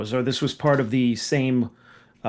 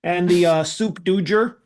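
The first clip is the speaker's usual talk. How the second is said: higher put-on voice, mangling soup du jour; Mister Furley; 4 semitones higher than usual. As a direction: order with jour said as 'dger'. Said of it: "it's like Mister Furley going to the French restaurant".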